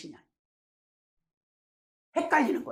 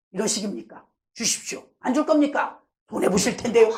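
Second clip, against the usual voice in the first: pushy demand building louder; mock threatening; 3 dB louder than usual. Believer bullying God for the gift, threatening. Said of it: "공갈 협박 다 하는 거예요".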